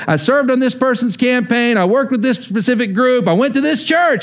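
proud, listing good deeds to God; smug believer. Retold or imitated. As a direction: show off the resume to God. Mock self-righteous believer before God.

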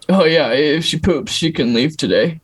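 a hint of a casual frat-guy surgeon; ortho surgeon impression. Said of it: "they talk like this".

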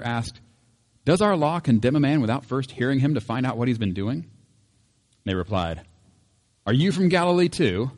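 measured, clear reading of the Bible passage; preacher reading scripture before the sermon. Acted. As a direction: read the gospel aloud to the congregation. Reads the scripture passage aloud.

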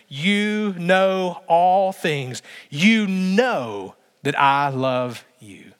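very slow, drawn-out confession; a slow broken reply; slow grieved plea. Pretend. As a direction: let Peter's hurt stretch every word.

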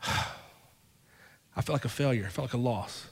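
slow, soft, sighing admission of failure; deflated and quiet, owning the failure; defeated sigh. Real, not acted. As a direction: let it out on a heavy sigh, very slowly.

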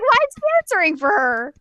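high and loud through laughter; laughing at the monk answering for Sango; amused disbelief. Retold or imitated. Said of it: "I was like".

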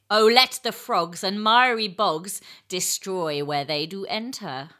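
slow, low poem recital; measured, declaimed verse in a low register; low eel voice. Acted. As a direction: take it low and smooth, stretching the lines. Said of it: "let's try low".

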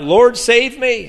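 high, slow, drawn-out cry. Acted. Peter sinking, calls to Jesus, high drawn-out cry. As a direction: call out for rescue, stretching the words. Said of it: "he cried out".

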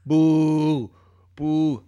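loud, high heckling from the audience; hammed-up heckler shout; acted heckler. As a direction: yell at the comic to get off, then long boos. Acts heckler at open mic.

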